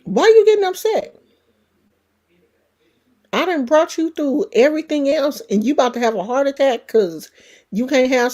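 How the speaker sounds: mock outrage at her fuss, high and quick; God scolding. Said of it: "And he was like".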